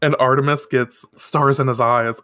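normal talking voice

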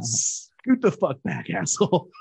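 slow, stretched-out drunk impression; distorted drunk voice. Imitating a drunk friend during a recording, slowly distorted. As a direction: drag it out like a drunk distorting his voice. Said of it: "like, distorts his voice".

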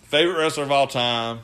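breathless fanboy awe; starstruck kid. Retold or imitated. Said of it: "and I was like".

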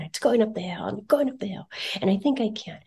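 whispered story chant; storytelling whisper. Retold or imitated. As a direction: hush it like a bedtime tale. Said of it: "I'm like".

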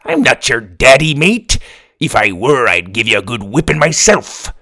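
put-on a salty pirate scolding the boy; gruff pirate. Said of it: "That's a pretty good pirate voice".

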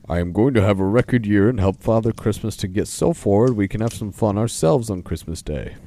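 a hint of a hearty bear character; Polar Bear. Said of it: "Do you wanna do Polar Bear's voice?".

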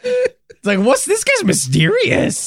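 high, slowed words squeezed through laughter; helpless high-pitched giggling delivery; laughing while talking. Real, not acted. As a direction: crack up mid-sentence. Cracking up at the joke name.

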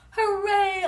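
loud, high, gleeful cheer; excited shout. A narrator's reading. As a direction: shout it out like a thrilled kid. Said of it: "I shouted".

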